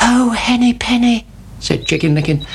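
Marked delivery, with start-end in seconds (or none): 0.1-1.2 high anxious chick. A narrator's reading. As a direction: cry out like a worried chick. Chicken Licken alarmed.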